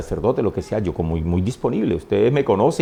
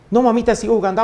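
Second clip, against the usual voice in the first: high-pitched little boy voice, retold; niño respondiendo; 9 semitones higher, faster than usual. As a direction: answer mamá as an eager child. Child answers mother, retold. (voz aguda de niño imitado)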